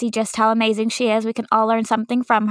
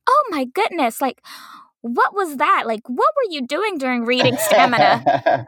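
mock-dramatic gasp of dismay, pitched higher; dramatic teacher; 3 semitones higher than usual. Kindergarten teacher hamming up dismay to her class. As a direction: play up the shock for the class. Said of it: "I can be very dramatic with".

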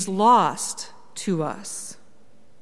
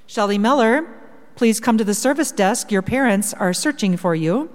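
flat echoey pa page; 3 dB louder than usual. Retold or imitated. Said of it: "an announcement on the intercom".

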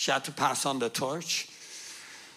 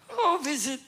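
higher-pitched mock-innocent answer, laughter around it; innocent tourist; 3 semitones higher than usual. Traveller answering airport interrogators, mock innocent. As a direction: play the harmless visitor, pitched up.

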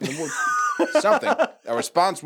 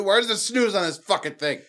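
mock annoyed; 10 semitones higher than usual. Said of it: "He's pointing at the sun".

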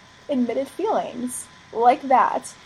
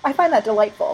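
repeated louder and clearer so the listener hears it; 8 dB louder than usual. Shown as a demonstration. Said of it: "I'm sorry?".

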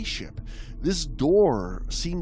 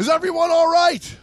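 high, loud worried French woman; shrill worried voice; 7 dB louder than usual. Acted. French woman calls out after the crash, high and worried. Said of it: "came a shrill, worried voice".

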